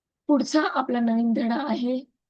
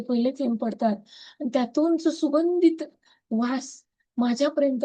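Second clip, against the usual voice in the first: gratitude prayer. Acted. Leading her Zoom group through a gratitude practice, prayerful litany. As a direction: give thanks as if praying aloud to the group.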